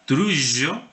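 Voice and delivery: trullo with a buzzing zh sound, tɾuʒo; medieval trullo. Shown as a demonstration. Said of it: "Suena así como un abejorro".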